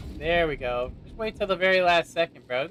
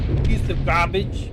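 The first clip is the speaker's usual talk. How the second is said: mock British accent; 5 dB louder than usual. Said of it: "with my accent".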